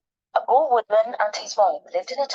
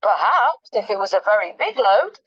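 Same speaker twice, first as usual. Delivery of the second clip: crafty; 5 dB louder than usual. Acted. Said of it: "answered the woodman craftily".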